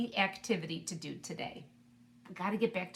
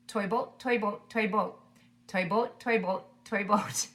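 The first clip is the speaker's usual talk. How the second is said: a little faster; 4 dB louder than usual. Shown as a demonstration. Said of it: "go a little bit faster".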